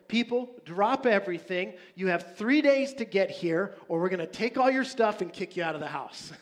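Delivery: urgent proclamation. Acted. Leaders summoning all Israel, loud urgent proclamation. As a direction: call it out like a herald. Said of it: "a proclamation is put out".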